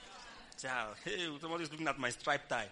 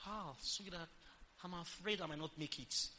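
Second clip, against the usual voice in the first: mock posh English; 2 semitones higher, 6 dB quieter than usual. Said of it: "some people, they want to speak Queen's English".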